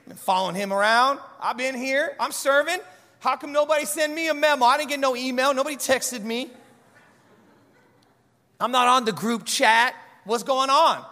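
a light complaining Mary; voicing Mary. Mary complains she wasn't told, lightly voiced. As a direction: play her as hurt and left out. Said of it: "what she doesn't say is".

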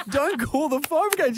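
high, exasperated retort. Retold or imitated. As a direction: shut the idea down, exasperated. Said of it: "I'm like".

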